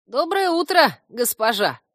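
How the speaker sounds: high, loud, gleeful little creature; joyful greeting. A narrator's reading. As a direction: call out a joyful greeting to your mistress. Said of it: "радостно приветствовал меня Корняга".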